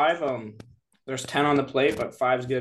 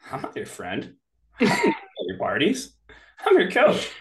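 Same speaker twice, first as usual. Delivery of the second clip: stern coach; 5 semitones higher than usual. Retold or imitated. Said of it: "he'd look at him and go".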